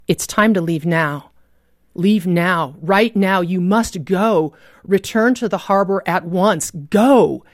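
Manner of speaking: urgent command. Retold or imitated. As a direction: imitate an insistent warning, building to the last word. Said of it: "I sensed the Holy Spirit saying".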